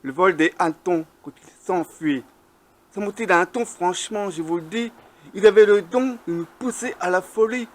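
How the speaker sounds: measured verse reading, line by line; poem recitation. Acted. Poet reciting on noisy cockchafers in flight, measured declamation. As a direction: recite your poem with deliberate pauses between lines.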